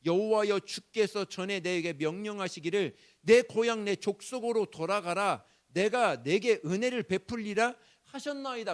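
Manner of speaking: 크게 외치듯 간구; 하나님께 힘주어 부르짖듯; 외치는 기도. Acted. 야곱의 기도를 소리 높여 인용. (야곱이 하나님께 크게 부르짖는 기도)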